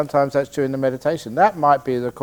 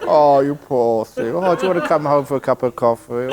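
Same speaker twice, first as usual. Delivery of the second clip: mock sympathetic woman. Monk joking as a girl pitying the crying man, cooing. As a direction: coo over him, then rush the offer.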